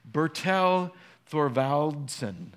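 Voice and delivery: Bertel Thorvaldsen said slowly, syllable by syllable, unsure of the Danish; careful foreign name. Real, not acted. Pastor attempting a Danish sculptor's name, slow and careful. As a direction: sound out Bertel Thorvaldsen slowly as a good try. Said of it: "I'm gonna murder his name".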